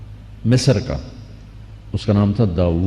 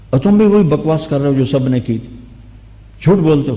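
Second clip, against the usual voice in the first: raised, higher accusing voice; angry governor; 4 semitones higher, faster than usual. Retold or imitated. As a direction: scold him as a liar. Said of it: "وہ غصے میں آ گیا". (غصے میں اونچی آواز سے ڈانٹتے ہوئے)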